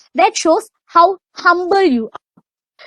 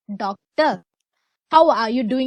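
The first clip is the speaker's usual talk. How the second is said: lower, measured and respectful, the proper way to greet a lecturer; formal polite tone; 3 semitones lower than usual. Shown as a demonstration. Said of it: "use a formal tone to them".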